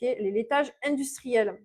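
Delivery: "industriels" slowed and leaned on, falling; slow emphasis. Shown as a demonstration. Nutritionist specifying for viewers, stressing "industriels". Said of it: "je précise".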